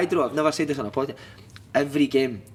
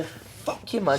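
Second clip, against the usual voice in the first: whispered, very soft mock threat; impersonated manager's whisper; imitated menace; 5 dB quieter, much slower than usual. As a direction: hush it right into someone's face.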